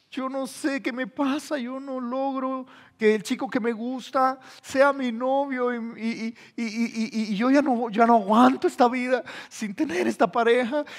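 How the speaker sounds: imitating a weepy girl, understated; mock crying girl. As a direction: lightly whimper out the lament. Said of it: "viene la chica llorando".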